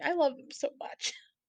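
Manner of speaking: crying through the words, very high and tearful. Talking about loving their brothers, crying while talking. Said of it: "I'm literally crying".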